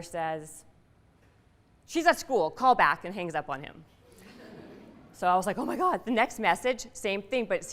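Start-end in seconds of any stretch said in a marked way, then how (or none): 1.9-3.0 higher and louder, curt dismissal; brusque mom. Retold or imitated. Mom shooing off the caller on the phone, curt and loud. 5.6-6.0 high-pitched gasped oh my God; like the floor just dropped away; stunned disbelief. Retold or imitated. Hearing Keanu on the answering machine, high stunned disbelief.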